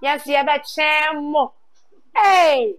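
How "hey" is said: high, loud, falling "hey"; hyped exclamation. Real, not acted. Host hyping a contestant's school, hyped exclamation.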